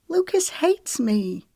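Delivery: mildly tearful lament. A narrator's reading. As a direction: plead it in near tears. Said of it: "Tears pooled in Magnolia's eyes".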